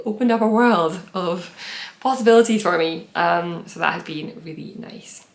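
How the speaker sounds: slightly breathless talking; words short of air after rushing; out of breath. Real, not acted. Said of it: "I'm suddenly very out of breath".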